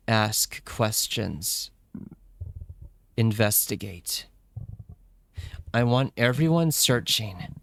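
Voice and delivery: lightly voiced stern leader; a hint of grave authority; stern commander. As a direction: give orders in measured, separate phrases. Voices Hunter giving orders.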